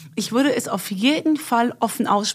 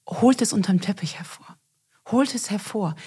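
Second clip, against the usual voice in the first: whispering. Real, not acted. Urging listeners, whispered.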